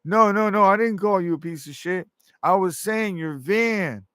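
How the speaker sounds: patiently insisting it's the van; retold self correcting the driver; high explaining denial. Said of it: "retold reply to driver".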